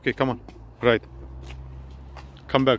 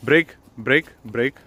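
nagging backseat driver; 6 semitones higher, 6 dB louder, slower than usual. Real, not acted. Instructor telling kid to brake.

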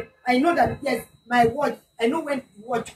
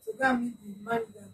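a bit louder, for the listener; louder repeat; 6 dB quieter than usual. Real, not acted. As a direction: raise the voice for them. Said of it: "Please speak louder".

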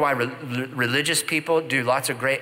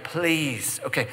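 mock pleading; 2 semitones higher than usual. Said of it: "I'm like".

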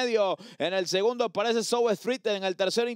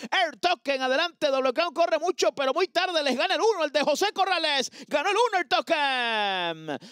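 excited race call; 4 semitones higher than usual. Real, not acted. Stretch run climax.

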